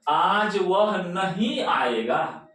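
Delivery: slow sentence, नहीं stretched and stressed. Shown as a demonstration. Teacher repeating the word stress example, stress on नहीं. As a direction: lean on नहीं and draw it out. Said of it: "इस पर ज्यादा जोर पड़ा".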